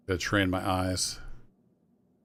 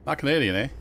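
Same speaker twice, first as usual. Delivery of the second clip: put-on Canadian accent; 7 semitones higher, 5 dB louder, faster than usual. Joking about Canadian accent.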